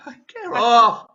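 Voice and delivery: laughing get off. Real, not acted. Boy laughing, pushing friend away.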